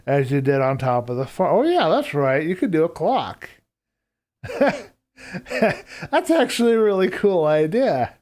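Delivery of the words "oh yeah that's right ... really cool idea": excited. Real, not acted. Realizing a chat tip is good.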